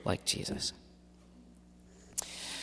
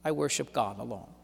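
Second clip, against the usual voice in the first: calm, courageous refusal; 4 semitones lower, 9 dB quieter than usual. Acted. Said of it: "calmly, courageously says".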